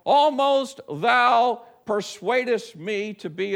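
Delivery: slow, stately King James reading; measured, grandly proper delivery; very British, proper. Acted. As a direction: declaim it slowly, rather proper and British. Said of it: "sounds very British and rather proper".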